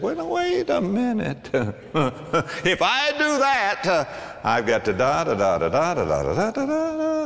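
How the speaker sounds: hesitant, high-pitched stalling excuse; lightly voiced skeptic babbling excuses; mock doubting man. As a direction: play the reluctant tither.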